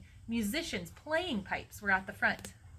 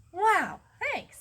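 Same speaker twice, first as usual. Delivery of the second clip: high, loud burst of delight; excited, high-pitched gratitude; thrilled thanks; 10 semitones higher, 7 dB louder than usual. A narrator's reading. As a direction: react with delighted amazement. Character thrilled with the seats.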